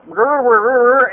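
mock croaking rasp, nothing comes out; lost voice croak. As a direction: strain to speak but only rasp. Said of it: "my God, I lost my voice".

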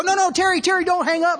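high, loud plea with a laugh in it; a mock-panicked shout into a dead phone; retold frantic plea. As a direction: call after him not to hang up, half laughing. Phone hung up on him.

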